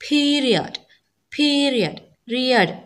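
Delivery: പീരിയഡ് spoken carefully, gliding from a high "ee" into "uh"; falling diphthong demo. Shown as a demonstration. Teacher showing students the second element of the diphthong, careful demonstration. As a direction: sound out പീരിയഡ്, then its ending റിയഡ്. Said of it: "prominence അല്ലെങ്കിൽ importance കൊടുക്കുന്നത്".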